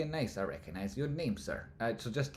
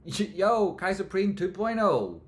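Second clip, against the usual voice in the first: much higher, louder, slow hype call; laughing hype-man shout-out; 11 semitones higher, 9 dB louder, slower than usual. Acted. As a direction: yell it like an announcer. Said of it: "repeat hyped".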